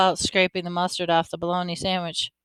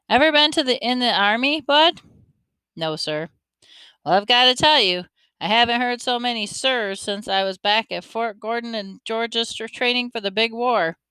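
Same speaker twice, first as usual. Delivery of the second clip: a hint of an old man spinning a yarn, a touch higher; lightly voiced older man; 3 semitones higher than usual. Older man tells the boy about his nightmare, lightly voiced, half joking. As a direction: tell the fright like a tall tale. Lefty jokes about sirs.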